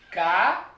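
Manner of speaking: ca-a-tin-ga split into four separate syllables. Shown as a demonstration. Teacher splitting a word into syllables for students, syllable by syllable. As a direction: spell out ca-a-tin-ga beat by beat, each syllable apart. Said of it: "se dividimos em grupos fônicos o vocábulo caatinga".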